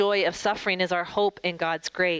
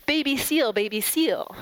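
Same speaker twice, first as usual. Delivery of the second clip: put-on child's excited call, higher at first; retold yell, pitched up then easing down; mild mock yell; 5 semitones higher than usual. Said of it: "started yelling".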